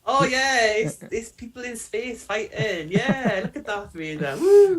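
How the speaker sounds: put-on fanboy hype, rising to a high, loud woo; mock enthusiasm. Co-host pretending to love a Star Wars show, mock-excited. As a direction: feign excitement, ending in a big whoop.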